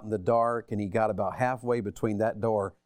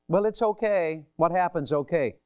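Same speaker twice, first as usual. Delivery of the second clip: dismissive brush-off; 4 semitones higher than usual. Shown as a demonstration. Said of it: "Forgiveness doesn't say that".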